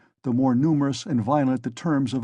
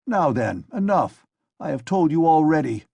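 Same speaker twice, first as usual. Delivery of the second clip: louder, snapping officer; angry cut-off; 4 semitones higher, 5 dB louder than usual. Acted. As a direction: shut her up sharply. Assistant cuts the lady off.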